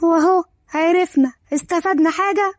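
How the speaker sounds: mild disgust; a touch of fed-up contempt. Acted. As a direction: dismiss it with understated distaste. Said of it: "فريدة بقرف".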